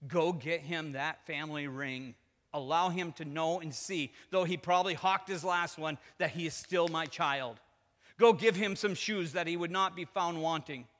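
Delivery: slow, emphatic orders; loud, deliberate proclamation as the father; father commanding servants. Acted. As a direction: give each order slowly and firmly. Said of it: "the father turns and tells his servants".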